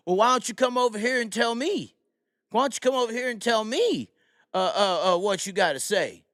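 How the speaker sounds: high-pitched shouted challenge; imitated screaming cop. Cop ordering his heckler over, imitated yelling challenge. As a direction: call him over, imitating an irate cop. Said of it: "they're screaming this".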